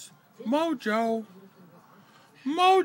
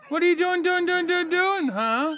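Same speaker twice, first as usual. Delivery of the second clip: sing-song teasing; 6 semitones higher than usual. Real, not acted. Playful sing-song to the bird.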